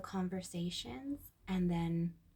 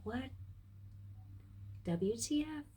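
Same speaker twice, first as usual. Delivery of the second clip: mock irritation; 5 semitones higher, 5 dB quieter than usual. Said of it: "kind of mad and kind of like".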